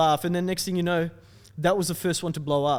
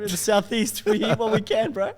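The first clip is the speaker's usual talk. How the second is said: mock tough Southeast bloke; 7 semitones higher, 5 dB louder than usual. Jokey boast, laughing.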